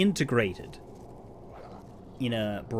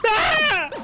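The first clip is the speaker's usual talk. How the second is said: high scream; 7 dB louder than usual. Acted. Donald screams at reveal.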